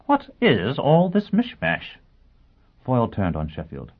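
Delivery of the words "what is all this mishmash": demanding. A narrator's reading. Foyle confused, demanding.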